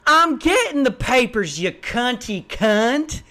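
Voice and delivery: mock yell back, high and dragged out; imitated yelling. Sister snapping back at the upstairs lady, mock yelling. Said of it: "her sister yells".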